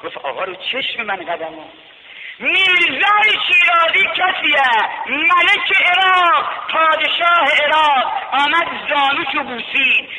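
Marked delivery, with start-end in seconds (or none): 2.4-10.1 high, loud preacher's cry; impassioned pulpit chant; full-force preaching. Acted. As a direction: lift the story into a sermon cry.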